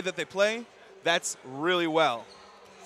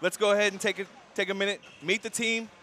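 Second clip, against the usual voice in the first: sports announcer welcome. Real, not acted. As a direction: welcome the crowd like an arena host. Announcer opens the broadcast.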